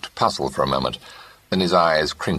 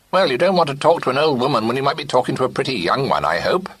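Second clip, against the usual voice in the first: lightly voiced old lady, higher and teasing; teasing old aunt; 10 semitones higher, 4 dB louder than usual. A narrator's reading. Great-aunt teasing her nephew, high and arch. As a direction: tease him like a sly old aunt.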